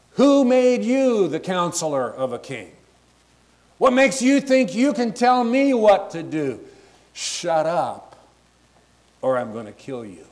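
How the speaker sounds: hammed-up angry king telling the prophet to shut up. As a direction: act out the king's irritated outburst, modernized. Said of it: "he got angry".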